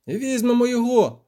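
high, excited strain; eager poet straining high; puffing with effort. A narrator's reading. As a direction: puff it out while hauling. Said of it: "сопів Любисток".

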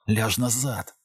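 soft urgent hiss. A narrator's reading. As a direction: hush her back down, quietly pleading. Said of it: "зашипів він".

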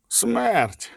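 soft, high-pitched and tender; gentle. A narrator's reading. Vesemir gently gives the grim answer, gentle. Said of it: "сказав лагідно Весемір".

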